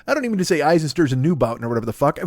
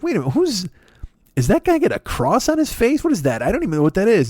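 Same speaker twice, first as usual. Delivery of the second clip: baffled fan; 7 semitones higher than usual. Retold or imitated. Confused fans of a rock band.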